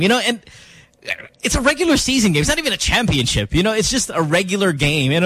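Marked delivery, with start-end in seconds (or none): none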